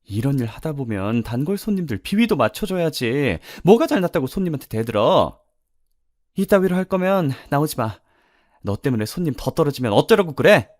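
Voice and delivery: restaurant owner berating an employee, pitch climbing; harsh scolding. Acted. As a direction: press her hard, rising into a high-pitched telling-off. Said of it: "여주인이 엄마를 불러서 몰아세우더라고요". (거세게 몰아붙이는 여주인 말투)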